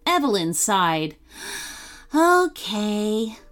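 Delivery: put-on lively storybook reading for kids; bright children's story read; story narration. A narrator's reading. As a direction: tell it like a bedtime story. Reads a kids' story aloud.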